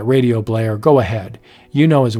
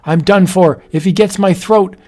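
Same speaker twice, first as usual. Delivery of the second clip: urgent fight; 6 semitones higher than usual. Acted. Husband fights the werewolf.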